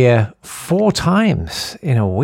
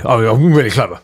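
James Cleverly impression; 4 semitones lower than usual. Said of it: "have a go at James Cleverly".

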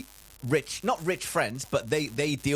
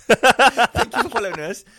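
presenter voice; 7 semitones higher, 11 dB louder than usual. Pretend. Mock host sign-off, far voice.

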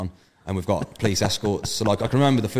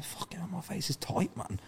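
higher and softer, a mock alarmed thought; a quiet high yelp as the sting sets in; alarmed inner voice; 10 semitones higher, 13 dB quieter than usual. Retold inner panic over burn.

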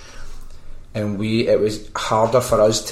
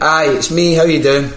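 blagging it; 6 semitones higher, 5 dB louder than usual. Retold or imitated. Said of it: "I'll just blag this one".

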